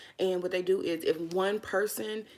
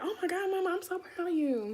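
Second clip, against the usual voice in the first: put-on a lightly higher child voice; imitating her son; 11 semitones higher than usual. Mom voices her son cheering her on, lightly higher. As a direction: play the proud seven-year-old. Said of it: "He'd be like".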